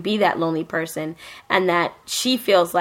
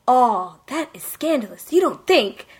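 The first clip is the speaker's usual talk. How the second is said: put-on gossiping girls; 5 semitones higher than usual. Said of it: "all the girls are like".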